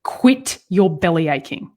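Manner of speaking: scolding quote played for a joke; joking retelling. Retelling grandmother's reaction to the fall, jokey scolding. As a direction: make it funny, with a laugh just after. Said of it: "you say it funny".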